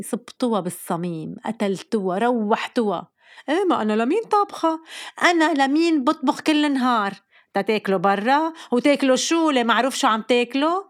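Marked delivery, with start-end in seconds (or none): 3.5-10.8 mock offended mother. Mother complains kids ate out.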